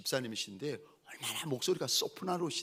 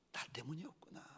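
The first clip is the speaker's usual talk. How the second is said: very soft, almost fading out; hushed realisation; 16 dB quieter than usual. Retold or imitated. Son realising his mother's sacrifice, hushed. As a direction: say it under your breath as it dawns on you.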